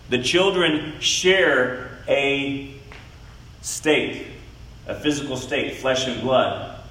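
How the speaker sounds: slow, with pauses on state and physical; careful emphasis. Shown as a demonstration. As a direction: lay out "state" and "a physical state" word by word. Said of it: "notice how carefully he makes the distinction".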